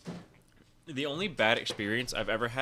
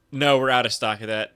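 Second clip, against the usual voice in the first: mock worker refusal; 8 dB louder than usual. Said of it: "if he did the".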